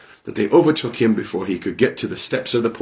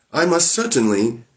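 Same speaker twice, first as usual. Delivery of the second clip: timid wife; 5 semitones higher than usual. Acted. Frightened wife answers Bluebeard.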